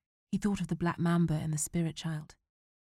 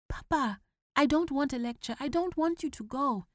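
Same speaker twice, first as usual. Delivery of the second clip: put-on higher, anxious boy's voice; worried young son; pleading boy; 9 semitones higher than usual. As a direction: beg him not to leave. Boy refusing lecture.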